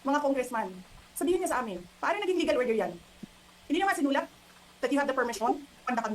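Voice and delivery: demanding answers from the congressmen, indignant; indignant challenge. Real, not acted. Challenging congressmen in press conference.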